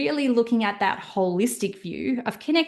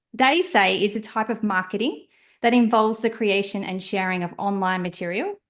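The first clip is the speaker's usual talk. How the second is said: plummy upper-class English reading; posh voice. Pretend. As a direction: read it like a posh dictionary. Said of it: "read this in a bit of a posh voice".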